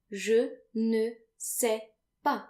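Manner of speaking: slow model phrase. Shown as a demonstration. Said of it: "final S's are silent".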